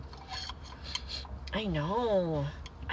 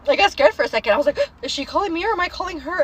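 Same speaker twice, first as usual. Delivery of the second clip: startled gasp; 6 semitones higher, faster than usual. Retold or imitated. Retold panic at phone.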